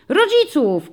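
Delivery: high loud call from the back; child shouting. A narrator's reading. Child in back row shouts answer: high loud call. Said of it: "krzyknął ktoś z tylnej ławki".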